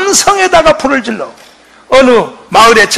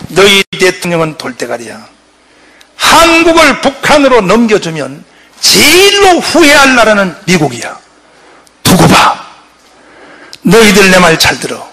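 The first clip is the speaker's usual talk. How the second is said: scolding roar; 4 semitones lower than usual. Retold or imitated. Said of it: "하고 호통을 쳐요".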